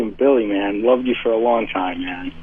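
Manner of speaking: unintentionally creepy, low-key caller; slightly creepy fan greeting. Real, not acted. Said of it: "Can you not say it in that creepy voice".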